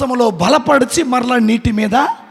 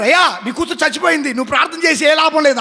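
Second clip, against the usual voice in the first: dismissive messengers; 4 semitones higher, faster than usual. Retold or imitated. Messengers tell Jairus daughter died.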